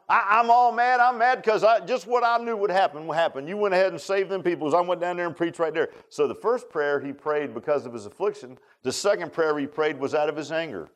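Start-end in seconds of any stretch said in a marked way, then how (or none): 0.1-5.9 put-on whiny little kid. Preacher mimics Jonah complaining to God, childish whine. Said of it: "he sounded like a little kid".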